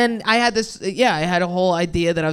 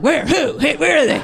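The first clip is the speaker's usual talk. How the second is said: higher, searching mock bewilderment; mock confusion; 7 semitones higher, 4 dB louder than usual. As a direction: play dumb looking around. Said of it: "And I'm like".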